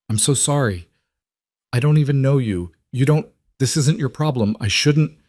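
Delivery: high, tearful pleading; crying, voice rising. Acted. Lena crying, apologizing.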